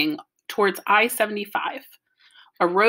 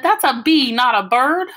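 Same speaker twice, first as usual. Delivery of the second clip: offended correction; 5 semitones higher, 6 dB louder than usual. Retold or imitated. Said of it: "Mom said".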